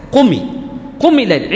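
"قمي" with a full short kasra on the mim, linked to الليل; full kasra on qumi. Shown as a demonstration. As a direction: say "قمي الليل" with a clear, complete i vowel. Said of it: "بالكسر". ("قمي الليل" بكسرة كاملة واضحة)

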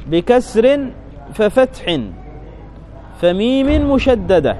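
بكسر ففتح فميم مشددة said slowly, syllable by syllable; slow, careful spelling of the vowels. Shown as a demonstration. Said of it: "يعني ضغمنا الميم في الميم". (تهجئة الحركات ببطء)

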